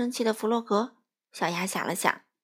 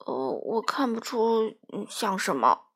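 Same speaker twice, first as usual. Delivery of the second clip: slow, halting honest answer; hesitant honest reply; honest hesitation; slower than usual. Acted. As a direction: search for tactful words. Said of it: "小猪很老实地回答".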